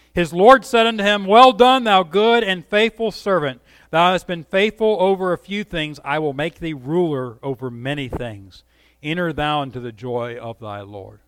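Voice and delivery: a master praising his faithful servant, warmly; scripture reading. Acted. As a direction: proclaim the master's praise, then soften.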